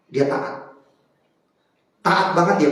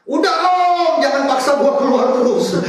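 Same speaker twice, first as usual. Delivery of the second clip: shrill, much higher pleading yell as the card; credit card screaming; 10 semitones higher, 5 dB louder than usual. Pretend. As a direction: play the maxed-out credit card begging papa to stop. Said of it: "udah teriak".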